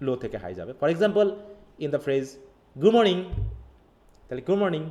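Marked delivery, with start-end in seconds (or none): 2.8-3.2 "morning" lifted high and loud on "mor"; high pitch on mor. Shown as a demonstration. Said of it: "we notice the high pitch on the syllable". 4.5-4.9 "morning" raised on "mor", then falling; high pitch on mor. Shown as a demonstration. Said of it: "মর্নিং এর ক্ষেত্রে ওই জায়গায়".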